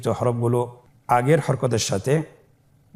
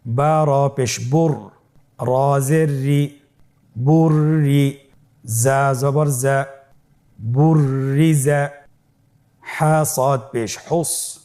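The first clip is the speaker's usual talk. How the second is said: spelling drill. Shown as a demonstration. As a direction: spell it out for students to repeat. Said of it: "আমার সাথে বানান করুন".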